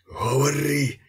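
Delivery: high, forceful order; commanding. A narrator's reading. Priest ordering his captive to talk, commanding. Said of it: "наказував панотець Федір".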